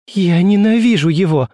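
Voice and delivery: shouted out in fury; beside herself. A narrator's reading. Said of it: "вскричала Жюли вне себя".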